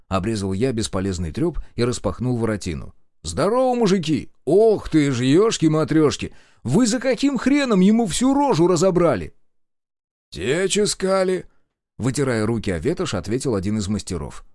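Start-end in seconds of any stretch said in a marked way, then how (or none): 3.2-9.3 loud, raised exclamation; indignant greeting. Acted. Hero bursts in angry. 10.3-11.5 higher, slow mechanic voice; casual workman answering; mechanic's reply. Acted.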